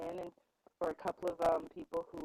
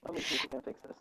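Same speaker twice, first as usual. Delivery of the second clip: far away. Real, not acted. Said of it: "you sounded very far away".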